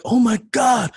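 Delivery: high, loud squeal of excitement; high, loud yell of a fan meeting his idol; fanboy yell. Retold or imitated. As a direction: shriek it like a starstruck fan. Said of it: "Like, I was yelling".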